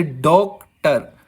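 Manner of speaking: डॉक्टर with weight on डॉक; stressed डॉक, then unstressed टर; stress on first syllable. Shown as a demonstration. Teacher giving a trochee example, stress on डॉक in डॉक्टर. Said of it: "first syllable दोस्तों stressed है".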